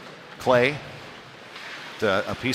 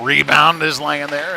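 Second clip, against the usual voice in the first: louder, slow stretched-out rebound call; raised, drawn-out play-by-play shout; excited call; 4 semitones higher, 5 dB louder, slower than usual. Real, not acted. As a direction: call the loose puck with rising excitement. Live call of a rebound chance.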